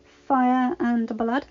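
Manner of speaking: questioning, slow. Acted. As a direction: ask "Fire and blood?" slowly, seeking confirmation. Dany asks Jon's vow.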